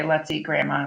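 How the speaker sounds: "Let's eat grandma" run together without a break; no comma pause. Shown as a demonstration. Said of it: "'Cause if you just say".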